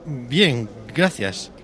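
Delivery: embarrassed. A narrator's reading. Antonio replying to the woman he recognised, embarrassed. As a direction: answer sheepishly, a little too loudly. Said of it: "contestó él avergonzado".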